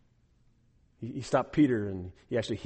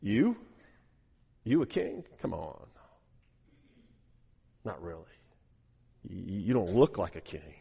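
incredulous; 6 semitones lower, 5 dB quieter than usual. Retold or imitated. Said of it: "looks at him kind of incredulously".

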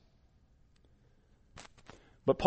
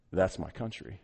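quiet, lower, with a lift at the end; hushed proud claim; 8 semitones lower, 12 dB quieter than usual. Retold or imitated. An ambassador touching his homeland on the globe, hushed and moved. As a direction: say it softly, like a vow. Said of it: "and said".

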